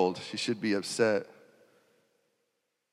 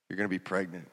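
stunned hush; 5 semitones lower, 9 dB quieter, faster than usual. Retold or imitated. Mary's stunned realisation.

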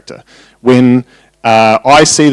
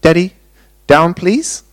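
put-on sweet, higher little-child plea; very sweetly; 6 semitones higher, slower than usual. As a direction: imitate a toddler asking ever so sweetly. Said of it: "very, very sweetly".

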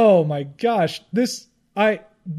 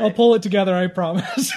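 after laughing hard. Real, not acted. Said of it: "I'm crying again".

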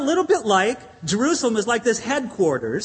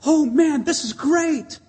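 mock excitement; 7 semitones higher, slower than usual. Pastor recalling Germans greeting sunshine, light mock excitement. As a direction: imitate someone thrilled at the blue sky. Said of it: "you got excited".

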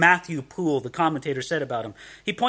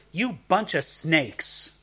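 modern blunt insult; 4 dB quieter, much slower than usual. Retold or imitated. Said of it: "That's what he's calling them".

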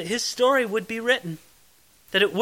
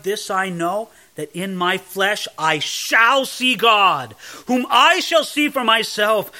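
triumphant; 4 dB louder than usual. Acted. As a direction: declare it in full triumph, drawing it out. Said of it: "Then he says in great triumph".

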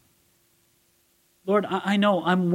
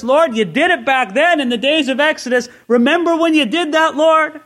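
pleading prayer; 8 semitones higher, 5 dB louder than usual. Acted. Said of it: "the idea here is".

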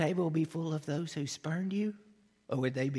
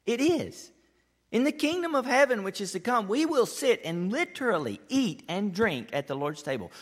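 higher, louder preaching push; rising fervor; 6 semitones higher, 5 dB louder than usual. Real, not acted. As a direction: lift into the promise with fire. Preacher rising to emphatic point.

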